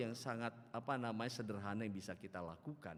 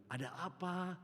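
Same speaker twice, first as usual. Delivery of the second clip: raised-pitch questioning call; concerned call; 9 semitones higher than usual. Retold or imitated. Pastor opens door to shouting neighbour, high concerned call. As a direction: call out to find what is wrong.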